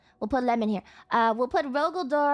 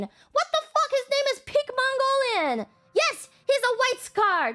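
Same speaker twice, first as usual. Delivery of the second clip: rising to an incredulous high yell; exasperated rant; 5 semitones higher than usual. Real, not acted. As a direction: blow up at how obvious it is. Ranting about an obvious name.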